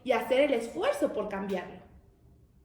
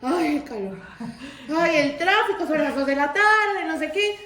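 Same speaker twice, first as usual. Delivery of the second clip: whiny mock sighs, louder, half laughing; mock complainer; 2 semitones higher, 5 dB louder than usual. Preacher mocking people who whine about heat and traffic, laughing. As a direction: ham up a petty griper.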